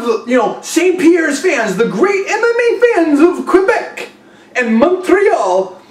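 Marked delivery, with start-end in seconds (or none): 1.8-5.8 a bad, laughing Quebec accent, pitched higher; failed Quebec accent. Host mocks Quebec fans in a laughing, badly faked Quebec accent. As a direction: try a Quebec French accent and botch it. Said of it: "I can't do the accent right".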